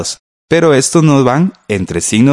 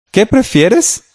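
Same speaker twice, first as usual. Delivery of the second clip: "¿Qué prefieres?" pitched much higher, rising on prefieres; high questioning demo; 12 semitones higher, slower than usual. Shown as a demonstration. Teacher answering a co-host, modelling the question much higher. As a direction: toss the question up brightly. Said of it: "Puede ser".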